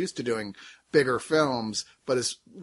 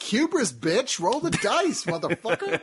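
voice of God; 6 semitones higher than usual. Retold or imitated. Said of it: "God's like".

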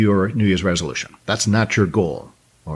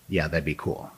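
mock indifference; 6 semitones lower, 9 dB quieter than usual. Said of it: "it's not just".

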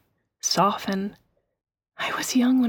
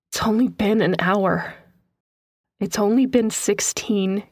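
anguished. Acted. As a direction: hold back the grief as you speak. Mother's anguish, slow.

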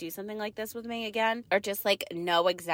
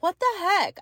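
exasperated; 11 semitones higher, 6 dB louder than usual. Retold or imitated. Exasperated about broken knees.

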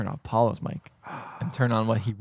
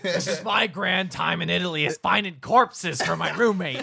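mock lament; 5 semitones higher than usual. Voices imagined parent or girl lamenting.

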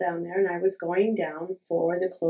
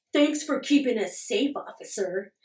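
sarcastic thanks; 3 semitones higher than usual. Retold or imitated. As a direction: fake sweetness aimed at the cop. Sarcastic parting line to cop.

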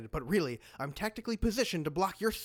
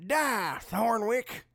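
raised battle cry; loud yell; 4 semitones higher, much slower than usual. Acted. Villain attacking the wizard, yelling. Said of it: "No one yells loudly at Thornwick".

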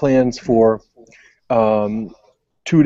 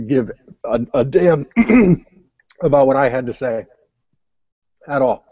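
mouth full; 3 semitones higher than usual. Real, not acted. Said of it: "sorry, I was choking on Twix".

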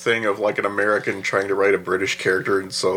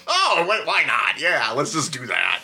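higher, breezy don't-care voice; carefree monk; 5 semitones higher than usual. Retold or imitated. Fan imitating the careless monk, breezy higher voice. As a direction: toss it off like nobody cares about time. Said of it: "you know, just like".

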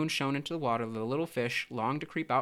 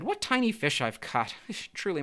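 laughing gloating; 7 semitones higher than usual. A narrator's reading. Pelican to the tiny fish it caught, laughing and gloating. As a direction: laugh over a fresh catch. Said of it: "He kept on laughing and said".

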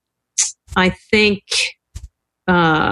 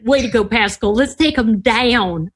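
put-on Southern accent. Cheering on a Southern ally after the plan, in a borrowed Southern accent. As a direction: playfully echo a teammate's Southern twang. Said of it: "Good Southern accent, Kathy".

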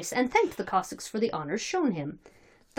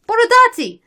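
very high, loud repeated cry; rival crowd shout; 11 dB louder than usual. Acted. Rival faction shouting its candidate's name, shouted.

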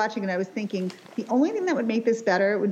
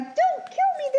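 very high, tiny pleading voice; talking fetus. Retold or imitated. Co-host mimics the movie fetus, high tiny voice. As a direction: squeak it out as an unborn baby. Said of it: "the fetus being like".

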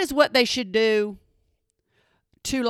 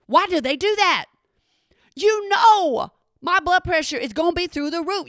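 exasperated rant; 6 semitones higher than usual. Real, not acted. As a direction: rant in disbelief. Ranting at the doctor.

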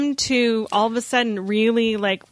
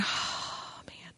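whispered, almost no voice; a hushed, dazzled whisper; breathless whisper; 16 dB quieter than usual. Retold or imitated.

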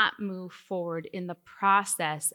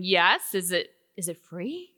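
eager laughing yes; 4 semitones lower than usual. Retold or imitated. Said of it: "And I was like".

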